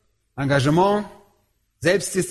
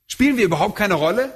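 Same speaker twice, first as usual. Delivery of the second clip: objecting listener; faster than usual. Retold or imitated. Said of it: "Ihr sagt".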